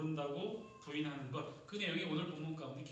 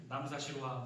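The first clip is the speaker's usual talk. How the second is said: Gyeongsang dialect exclamation; 3 semitones lower than usual. Shown as a demonstration. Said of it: "경상도입니다". (경상도 사투리로)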